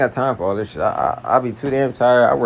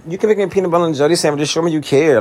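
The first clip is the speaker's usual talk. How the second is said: mocking girlfriend; 5 semitones higher than usual. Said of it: "And they be about".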